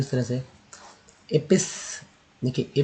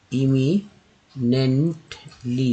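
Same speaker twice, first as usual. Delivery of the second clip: slow demo pronunciation; much slower than usual. Shown as a demonstration. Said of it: "next देखिए".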